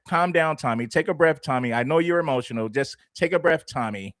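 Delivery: mock the guy hushing Tommy like a child; condescending "calm down" parody. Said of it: "He said".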